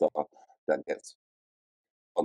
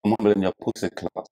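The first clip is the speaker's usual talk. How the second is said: Jamaican. Real, not acted. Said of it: "sorry, I went into Jamaican mode".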